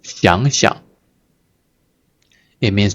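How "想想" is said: 想想 rising, then unforced and light; don't push the second 想; gentle second syllable. Shown as a demonstration. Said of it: "You don't push yourself".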